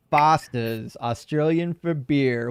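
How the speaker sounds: slow ad-slogan mock Australian; fake Australian accent. Streamer imitating Foster's marketing, fake Australian accent. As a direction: draw it out like a fake Aussie beer ad. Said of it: "I know fake Australian".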